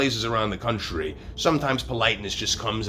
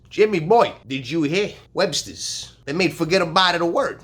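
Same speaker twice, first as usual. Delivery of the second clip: excited caller; 8 semitones higher, 5 dB louder than usual. Retold or imitated. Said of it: "He says".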